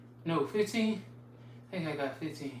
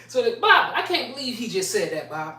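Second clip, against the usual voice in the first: laughing mockery; 3 semitones higher than usual. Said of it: "That's how they talk".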